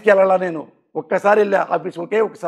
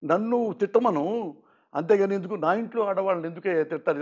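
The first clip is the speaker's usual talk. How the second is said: softer, slow, a touch of tears in the voice; imitating a hurt friend pleading quietly; mild tearful plea; 7 dB quieter, slower than usual. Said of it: "కన్నీళ్ళు పెట్టుకుని మాట్లాడుతుంటే". (కన్నీళ్లతో మెల్లగా, బాధగా వేడుకోలు)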